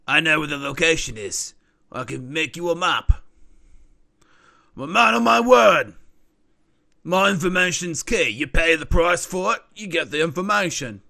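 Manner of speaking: lightly voiced, insistent information dealer; businesslike informant. Informant assuring buyers his information is good, insistent. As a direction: vouch for your goods like a dealer.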